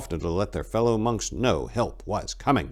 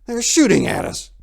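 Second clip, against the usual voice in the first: indignant outcry, rising louder; crying out; 7 semitones higher, 5 dB louder than usual. A narrator's reading. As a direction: shout across the trees. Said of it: "he cried out".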